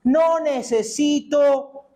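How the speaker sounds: high, cocky mock insistence; mock the stubborn man who refuses help; proud self-reliant voice. Preacher mimics a proud man refusing help, high and cocky. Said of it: "El que dice".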